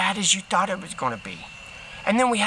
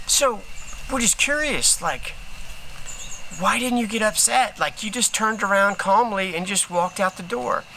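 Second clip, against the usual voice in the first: curious host; 4 semitones higher than usual. Retold or imitated. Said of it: "the guy's like".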